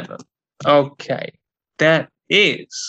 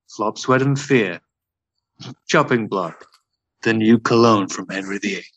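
sultry perfume ad; 4 semitones lower than usual. Pretend. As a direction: sell it like a luxury perfume. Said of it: "making shit perfume commercials".

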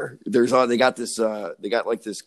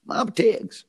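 "Mama Tig's" lifted much higher, falling on "Tig's"; sing-song name; 11 semitones higher, slower than usual. Shown as a demonstration. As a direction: call out "Mama Tig's" high, like a jingle.

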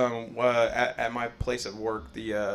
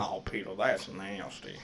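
Cleveland impression; 4 semitones lower, 3 dB quieter than usual. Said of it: "the only thing I can do with his".

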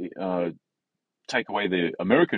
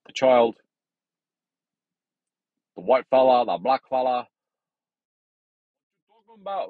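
put-on Asian accent; 6 semitones higher, 7 dB louder than usual. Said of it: "I tried to do an Asian accent there".

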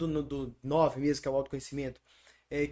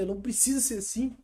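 higher, rising, with the weight on preciso; emphatic realization; 5 semitones higher than usual. Retold or imitated. Repeating the realization about the church's expectations, emphatic and higher. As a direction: say it again as a liberating outburst.

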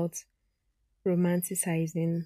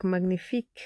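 mock French "magnifique"; French accent. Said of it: "I don't know French".

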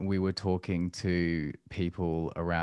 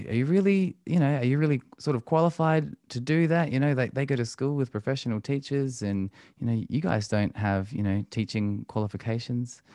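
higher mock skeptic, louder at first; doubtful relative voice; 6 semitones higher, 4 dB louder than usual. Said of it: "we kind of got all of your classic questions".

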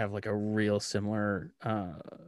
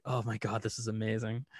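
quiet delight; 6 dB quieter than usual. Retold or imitated. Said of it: "And I'm like".

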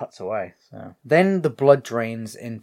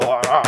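mock groan of growing frustration; imitated annoyed groan; 7 dB louder than usual. Leatherface wrong a second time, annoyed groan. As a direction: groan like a thwarted brute. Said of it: "He gets well annoyed at that".

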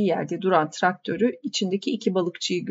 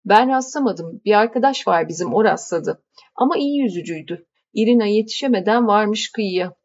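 a hint of a hearty fisherman, slightly louder; easygoing fisherman calming his wife; lightly voiced fisherman; 2 semitones higher, 3 dB louder than usual. Yakup reassuring his wife before heading out to fish.

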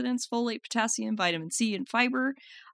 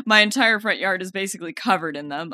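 laughing while talking; 6 dB louder than usual. Real, not acted. Laughing through her sentence.

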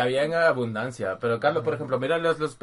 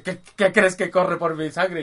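angry Thor; 3 semitones higher, slower than usual. Retold or imitated.

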